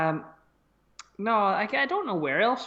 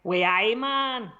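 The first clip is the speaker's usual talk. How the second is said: attempted Geordie, rising at the end; Geordie accent; much slower than usual. Shown as a demonstration. Contestant asked to give a Geordie, rough Geordie accent. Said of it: "Give me a Geordie".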